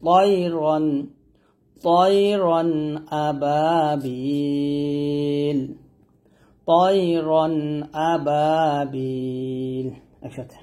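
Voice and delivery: তয়রন with a thick ত, then chanted আবাবিল; heavy ta. Shown as a demonstration. Teacher models তয়রন with a heavy ত. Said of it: "এটা ত বলতে হবে".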